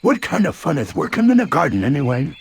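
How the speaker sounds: bouncy cartoon tiger voice; lightly voiced bouncy tiger; Tigger voice. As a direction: play Tigger, cocky and breezy.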